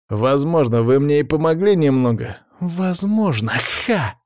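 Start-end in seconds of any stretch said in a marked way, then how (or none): 2.6-4.2 higher mocking echo with scoffing ha; scornful parroting cry; mocking exclamation. A narrator's reading. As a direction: throw his word back at him. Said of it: "воскликнула покрасневшая Софья".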